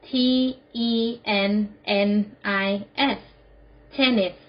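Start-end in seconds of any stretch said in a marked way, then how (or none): 0.1-3.2 spelled out. Shown as a demonstration. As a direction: spell it out with a pause after each letter. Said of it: "Spell it". (สะกดทีละตัวอักษรช้า ๆ)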